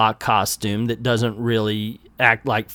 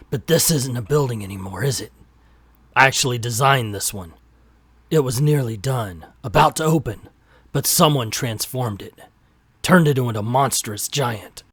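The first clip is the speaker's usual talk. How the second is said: noir detective; 2 semitones lower than usual. Acted. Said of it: "I'm gonna read it like a noir".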